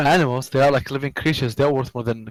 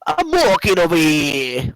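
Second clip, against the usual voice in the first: slow, higher imitation of Hazza's accent; 4 semitones higher than usual. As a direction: drawl it out in Hazza's accent, lightly. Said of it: "It's funny when Hazza does it".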